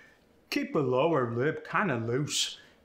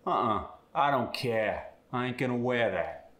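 care and wear without the R, Cockney style; Cockney refusal; Cockney air sound. Shown as a demonstration. Student demos the Cockney air sound. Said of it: "air sound gets the A S sound".

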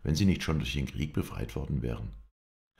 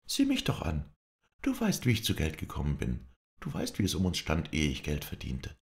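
losing composure. Acted. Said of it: "Sie konnte sich nicht länger beherrschen".

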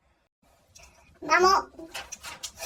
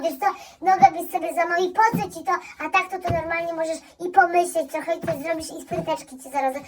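doting mother; 2 semitones lower, faster than usual. Acted. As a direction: fuss over him like a baby. Mother fawning over son.

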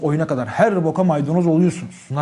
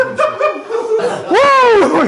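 laughter; 6 dB louder than usual. Real, not acted. Audience reacts to joke.

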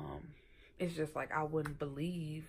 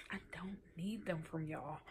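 soft unvoiced whisper; confiding whisper to the viewers; whispered aside; 8 dB quieter than usual. Real, not acted.

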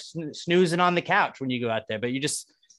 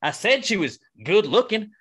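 mock creep; 6 semitones higher than usual. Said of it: "this is my way".

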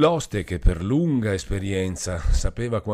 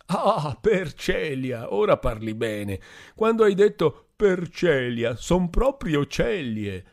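put-on higher, slow and slurred, a tipsy young man; drunken Renzo; 9 semitones higher, 5 dB louder than usual. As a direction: drag it out like a happy drunk. Drunk Renzo mocking joke.

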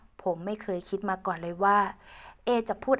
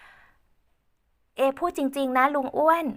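put-on higher, slow earnest girl voice; slowly and seriously, as Ae; earnest young woman; 6 semitones higher, 3 dB louder, much slower than usual. Ae speaking earnestly to Uncle Uan, slow and high. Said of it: "ด้วยสายตาจริงจัง".

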